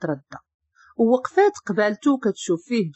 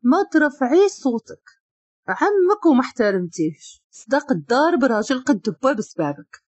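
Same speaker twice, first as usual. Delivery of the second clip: seething anger; 3 semitones higher than usual. Acted. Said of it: "قال من بين اسنانه".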